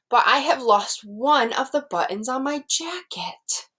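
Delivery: put-on lively read-aloud for young children; storybook reading. Teacher reading Frog and Toad aloud to her class. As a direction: read it like a picture book to a class.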